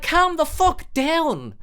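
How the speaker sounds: high, slow, fed-up snap; mock exasperated. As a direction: drag it out, fed up. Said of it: "And you're like".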